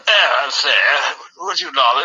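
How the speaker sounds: slow, lightly put-on Somerset accent; a hint of a Somerset goat offering a drink; mock Somerset accent. Correcting how the club goats talk, slow light Somerset accent. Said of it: "sort of Salter accent sort of thing".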